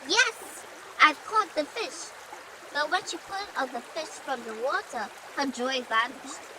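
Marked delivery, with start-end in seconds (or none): 0.1-2.1 a high, bright yelp of joy at the catch; excited shout. A narrator's reading. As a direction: cry out happily, higher pitch. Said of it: "She shouted with excitement".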